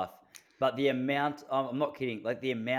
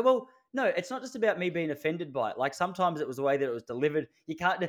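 retold argument; 5 semitones higher than usual. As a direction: push back at her. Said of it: "I go".

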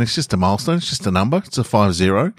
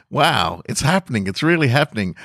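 higher, giddy disbelief; excited; 5 semitones higher than usual. Real, not acted. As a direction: marvel that it's finally happening. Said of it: "I'm very, very excited".

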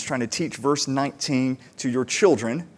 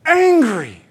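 put-on high, slow stretched child's pout, voice pitched well up; pouty toddler stretching out so angry; angry four-year-old; 8 semitones higher, much slower than usual. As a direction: play the furious little girl, dragging it out. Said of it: "she'll just say".

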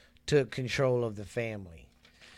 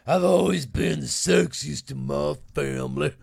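mimicking a TV woman's line, put-on voice, louder; imitating a TV woman; 5 dB louder than usual. Host mocking a reality-show woman's boast, put-on voice. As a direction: ham up her boast in a borrowed voice. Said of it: "The White Family".

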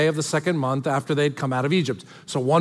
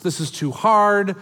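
imitating grumbling; 2 semitones lower than usual. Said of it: "whether we're going to grumble".

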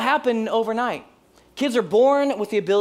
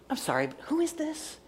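small, high, soft apologetic voice; timid question; 7 semitones higher, 8 dB quieter than usual. Acted. Confused listener finally asking the caller who it is, timid. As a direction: ask gingerly, afraid to offend.

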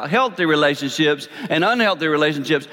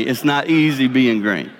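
lower, intimate restatement; softer confiding repeat; 4 semitones lower than usual. Shown as a demonstration. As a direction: lower and quieter, like a confession. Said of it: "Trust me".

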